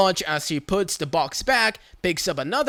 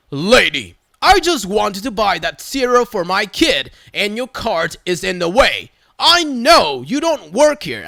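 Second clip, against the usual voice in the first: semi-loud dad voice; 2 semitones higher, 4 dB louder than usual. Retold or imitated. Shopper finally standing up to Karen, semi-loud stern dad voice. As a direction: shut her down like a dad warning his kid. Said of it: "my best semi-loud dad voice".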